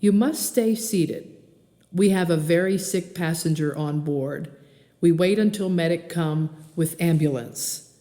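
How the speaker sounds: a hint of a Korean-accented captain; lightly voiced Korean pilot announcing; understated Korean accent, formal. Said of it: "in an accent slightly less thick".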